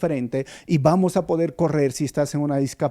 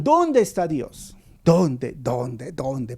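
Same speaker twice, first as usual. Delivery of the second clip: anguished question fading away; much slower than usual. Retold or imitated. Grieving people asking where God is.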